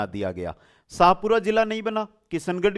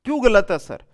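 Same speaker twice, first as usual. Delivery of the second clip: louder, a bit higher student's protest; puzzled student; 4 semitones higher, 7 dB louder than usual. Retold or imitated. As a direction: ask it like a confused pupil. Teacher voices a puzzled student. (छात्र की तरह हैरानी से ऊँची आवाज़ में)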